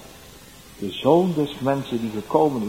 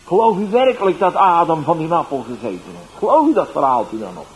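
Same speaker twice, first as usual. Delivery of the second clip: mocking heckler; 6 semitones higher, 11 dB louder than usual. Mocker heckling the street evangelist.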